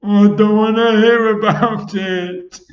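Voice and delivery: earthworm shrieking. A narrator's reading. Blind earthworm to friends, loud high shriek. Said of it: "shrieked the poor blind earthworm".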